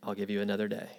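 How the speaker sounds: quiet, low-key giving in; soft retold concession; relenting professor. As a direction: concede softly, voice dropping away. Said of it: "he kinda relents again".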